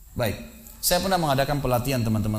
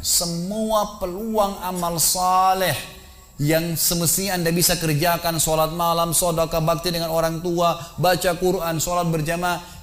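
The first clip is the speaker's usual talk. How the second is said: slow, raised, drawn-out preaching; urgent exhortation; 4 semitones higher, slower than usual. Retold or imitated. Preacher makes a shrouded volunteer picture his wasted chances, urgent exhortation. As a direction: press each missed deed on him, high and drawn out. Exhorts man lying as corpse.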